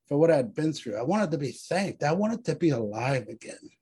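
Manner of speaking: measured, solemn recitation; dramatic reading. Acted. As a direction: read it like a memorial poem.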